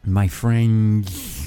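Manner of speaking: "My French" with a lisping end; lisped friend. Shown as a demonstration. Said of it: "it's like S H".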